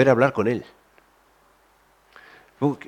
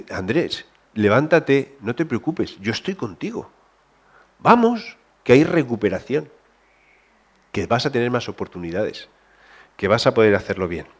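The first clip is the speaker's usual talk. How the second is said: tender reassurance; 4 dB quieter than usual. Retold or imitated. God voiced consoling the fallen.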